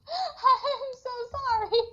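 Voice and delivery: high, drawn-out laughing apology. Real, not acted. Guest apologizing for yelling on air, laughing and mortified. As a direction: apologize helplessly through laughter.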